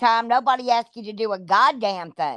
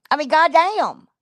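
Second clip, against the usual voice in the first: higher and louder goddamn, thrown out; exasperated outburst; 5 semitones higher, 4 dB louder than usual. Real, not acted. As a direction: blurt it in disbelief.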